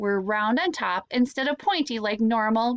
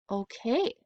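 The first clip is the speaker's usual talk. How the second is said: slightly offended; 4 dB quieter, slower than usual. Acted. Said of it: "slightly offended".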